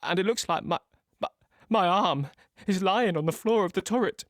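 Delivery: shocked realisation building to alarm; rising shock. Acted. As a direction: voice climbing in horror as he sees his arm. Seeing his arm on the floor.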